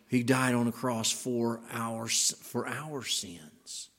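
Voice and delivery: "our" drawn out and set apart; slow right down and lean on "our"; stress on our. Shown as a demonstration. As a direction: linger on "our", then let "sins" fall away. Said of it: "You could change, I mean, you could go".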